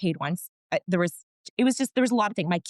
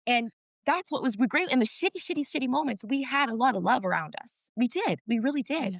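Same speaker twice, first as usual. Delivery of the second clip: moved and grateful, pitch climbing as it goes on; getting emotional; 4 semitones higher than usual. Real, not acted. Guest recalling everyone who searched for the lost dog, emotional. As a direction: voice lifting with emotion, higher than usual. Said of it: "I can get emotional".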